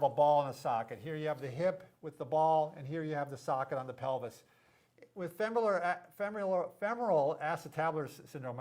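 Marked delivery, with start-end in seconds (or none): 5.1-8.6 stumbling over the long term; tongue-tied. Real, not acted. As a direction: trips on femoral acetabular, restarts. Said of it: "I'm really having my mouthful problems here".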